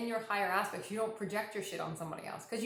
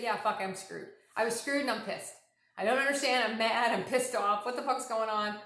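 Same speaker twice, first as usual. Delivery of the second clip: louder demo of getting pissed off; venting anger; 4 dB louder than usual. Shown as a demonstration. Showing listeners how to vent, mild mock anger. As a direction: let it out like you're mad. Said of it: "If you feel like you were screwed, say".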